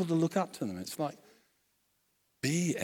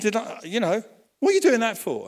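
mildly angry mother; 8 semitones higher, 8 dB louder, faster than usual. Retold or imitated. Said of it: "She gets all mad with him".

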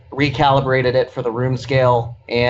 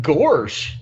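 exaggerated cartoon intonation; 3 semitones higher than usual. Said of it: "responded with".

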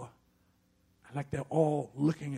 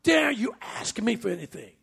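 high, loud angry rebuke; father yelling; 8 semitones higher, 6 dB louder than usual. Retold or imitated. Father yelling at his young daughter, loud angry rebuke. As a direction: bark it at the child like a furious father. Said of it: "yelled at her".

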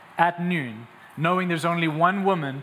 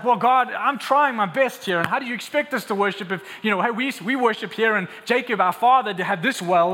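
higher, insistent self-justifying protest; exasperated pleading; 4 semitones higher, 3 dB louder than usual. Acted. Preacher as the woman making excuses to God, exasperated. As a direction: argue your case to God, flustered. Acted defensive plea to God.

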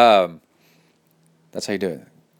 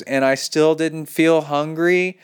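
higher, slow questioning emphasis; all-caps disbelief; 5 semitones higher, slower than usual. Acted. Reader voicing the listener's puzzlement at no hunger, mock disbelief. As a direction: read it as capitals and question marks. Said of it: "In all caps".

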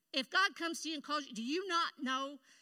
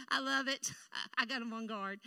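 laughing. Real, not acted. Laughing about nervous volunteers.

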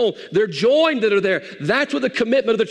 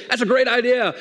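higher-pitched eager agreement; enthusiastic pig; 6 semitones higher than usual. Acted. Pig welcoming the chicken's breakfast plan, enthusiastic. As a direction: jump at the suggestion.

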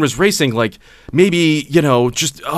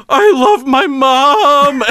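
high, very slow, louder wail; mock drunk scream; 13 semitones higher, 5 dB louder, much slower than usual. Drunk neighbor howling about his mom, mock scream. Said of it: "screaming at the top of his lungs".

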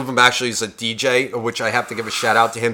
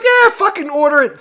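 high, excited yell-along; raised, eager party reply; rowdy agreement; 4 dB louder than usual. Retold or imitated. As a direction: act out being all in for another round. His rowdy answer to the girls.

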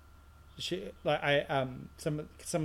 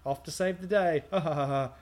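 imitated jeer with mock laugh; mocking laughter; 2 semitones higher than usual. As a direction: tease him, then fake a spoken ha-ha. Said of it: "laughing at him leaving".

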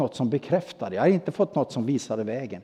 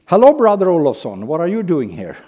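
retold call across a platform, louder on the greeting; calling out from behind; 5 dB louder than usual. A stranger calling after the preacher on the platform, mild retold call. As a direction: call his name to catch his attention. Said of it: "någon som bakom mig ropar".

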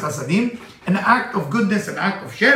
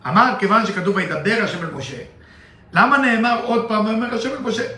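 rattling off the Hebrew verse quickly; fast Hebrew recitation; rapid text reading; 3 semitones higher, much faster than usual. Acted. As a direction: read the verse at speed, as in study. Reads Zohar text fast.

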